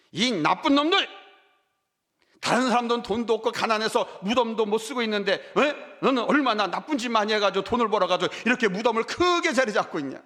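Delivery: acting out a tongue-lashing at tombs; 무덤에 대고 욕하듯 흉내; mock scolding the graves. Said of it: "제가 그랬어요". (가벼운 꾸짖는 흉내)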